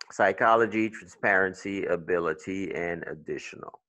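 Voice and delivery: "psychology", "transparency", "ability", "additional" stressed on CHO, PAR, BIL, DI; second-syllable stress. Shown as a demonstration. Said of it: "On the second syllable".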